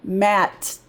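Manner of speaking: "Mat" with a light, barely sounded final T; unstressed T. Shown as a demonstration. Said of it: "We're not stressing that T sound".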